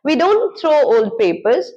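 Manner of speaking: very slow, each sound clear; slow careful pronunciation. Shown as a demonstration. Teacher showing her pronunciation, very slow. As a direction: show the pronunciation slowly. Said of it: "अगर आप ऐसे बोल रहे हैं तो दोबारा practice कीजिए".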